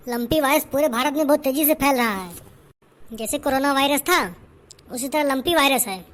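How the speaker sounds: loud, firm village doctor diagnosing; doctor explaining the virus, loud and sure. Acted. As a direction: speak up like a confident doctor. Performer plays the doctor.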